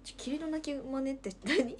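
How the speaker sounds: 吹き出しながら問い返す; 笑いが止まらないまま; 笑いながら突っ込む. Real, not acted. 無茶ぶりに笑う. (笑いながらの突っ込み)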